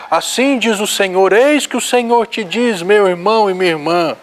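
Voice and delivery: lightly imitated solemn prophecy; mock prophetic voice. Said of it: "Não precisa mudar de voz, não precisa mudar a entonação da voz".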